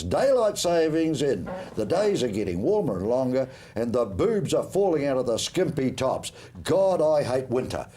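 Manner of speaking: slow, deliberate reading of a letter. Acted. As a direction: read it out slowly, savouring each line. Reads a listener's letter aloud.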